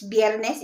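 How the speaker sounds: viernes with its V said as a B. Shown as a demonstration. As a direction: start viernes on a B sound. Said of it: "it's pronounced, you know, B".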